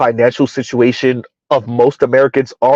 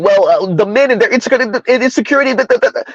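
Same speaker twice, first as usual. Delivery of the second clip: higher, dismissive mock voice; mock weaseling; 6 semitones higher, faster than usual. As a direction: brush it off in a higher voice. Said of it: "tried to weasel out by saying".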